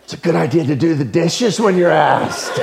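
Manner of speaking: laughing through the advice; laughing reply. Real, not acted. The teller answers a worried guest while laughing. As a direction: chuckle it out, teasing but kind.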